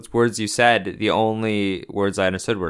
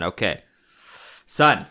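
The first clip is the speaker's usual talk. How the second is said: stern parent; 2 semitones higher than usual. Retold or imitated. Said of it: "is what I'm saying".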